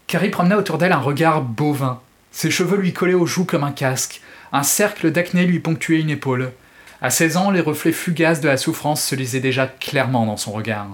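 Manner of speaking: dramatic audiobook reading; expressive French audiobook narration; story narration. A narrator's reading. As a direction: read the novel like a storyteller. Reads Stephen King excerpt aloud.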